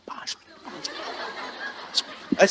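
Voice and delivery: put-on soft whispered pleading kid; whining child.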